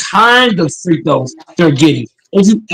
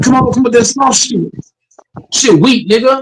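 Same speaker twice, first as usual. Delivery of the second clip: raised, pitched-up angry ranting; heated rant; 4 semitones higher than usual. Real, not acted. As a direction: vent at the refs. Ranting about referees' whistles.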